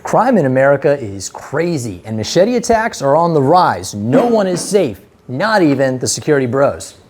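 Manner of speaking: loud, ominous trailer narration; horror trailer voice. Acted. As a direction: announce the danger like a horror movie trailer. Dramatic video intro, loud.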